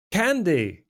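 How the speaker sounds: lightly voiced London accent, charming; British accent. The speaker greets Candy with a light British accent. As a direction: he plays the smooth Londoner. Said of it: "You're, like, what? British?".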